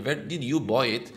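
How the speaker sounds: "did you" kept as two separate words; slow "Where did you buy it", without blending; unlinked words. Shown as a demonstration. Teacher showing an acceptable non-native way, separated "did you". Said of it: "حالا اگه تو گفتی که".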